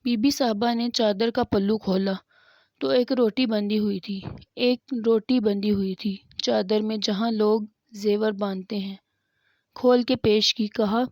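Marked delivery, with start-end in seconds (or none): 4.6-7.0 hushed, unvoiced repeat of the line; whisper. Shown as a demonstration. Preacher telling of the bread tied in her shawl, whispered. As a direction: drop to a whisper on ایک روٹی بندھی ہوئی تھی.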